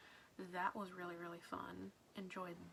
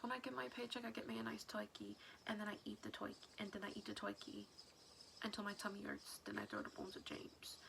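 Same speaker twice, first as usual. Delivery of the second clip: a mock Brooklyn accent, tossed off for fun; bad Brooklyn Meowth accent. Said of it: "a really bad Brooklyn accent".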